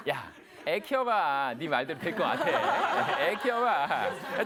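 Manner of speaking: very slow, drawn-out mocking retort; scoffing laugh. Parents scoffing at the lecturer's advice, slow amused mockery. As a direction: imitate a skeptical parent, stretching every word with amusement. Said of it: "부모님들은 피식하고 웃으세요".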